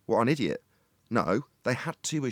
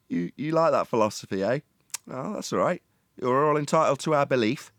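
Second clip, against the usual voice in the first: a lighter touch of patronizing, still raised; mock condescension; 4 semitones higher, 3 dB louder than usual. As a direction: keep the teasing put-on going, less high. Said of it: "bit of reverse psychology".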